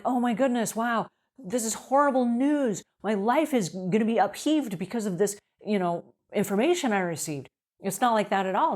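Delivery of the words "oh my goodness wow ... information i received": mock horror, pitched up, as if disaster struck; overdramatic panic. Shown as a demonstration. Cleaner overreacting to a customer complaint, hammed-up horror. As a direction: play the wrong, over-the-top reaction to a complaint.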